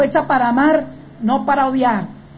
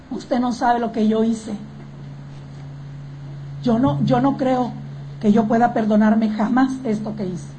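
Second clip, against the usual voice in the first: guilty despair; 3 semitones lower, 4 dB quieter than usual. Acted. Voicing woman who cannot self-forgive.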